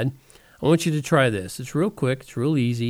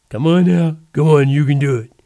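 coaxing; 9 dB louder than usual. Real, not acted. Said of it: "coaxing listener to laugh".

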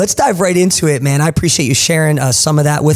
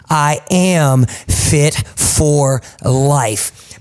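slow, rising, declaiming confession over music; stirring, slow motivational creed; recited affirmation; 2 semitones higher, much slower than usual. Shown as a demonstration. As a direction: proclaim each line slowly for them to repeat. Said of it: "just repeat after me".

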